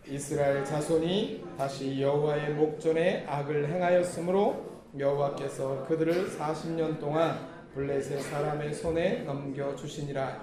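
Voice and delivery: even, measured reading aloud; scripture reading. Real, not acted. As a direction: lead the congregation in reading the verse. (고른 어조의 성경 봉독)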